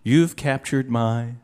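low, lover's declaration, hammed gently; acted tender declaration; mock romantic. Quiz clue voiced as love declaration.

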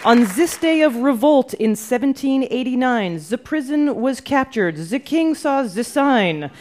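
a Frenchman in Brooklyn reading verse; French accent. Acted. Host reads a trivia rhyme in French accent. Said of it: "That was a terrible French accent".

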